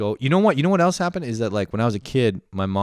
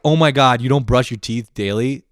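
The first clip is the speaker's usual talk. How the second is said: mock shocked people; 3 semitones higher, 6 dB louder than usual. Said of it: "People are like".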